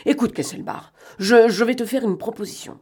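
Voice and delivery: agitated, broken delivery; irritated, jerky. A narrator's reading. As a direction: press on edgily, in jerks. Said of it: "puis énervé, puis saccadé".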